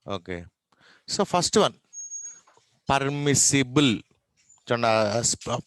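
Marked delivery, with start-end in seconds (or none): 2.9-3.9 పర్మిసిబుల్ sounded out loudly, syllable by syllable; careful correct pronunciation. Shown as a demonstration. Teacher shows class the correct sound, careful పర్మిసిబుల్ with clear "si".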